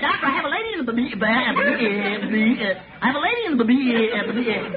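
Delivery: stammering on every word; stuttering. Acted. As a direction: get stuck repeating syllables. Stuttering announcer bit.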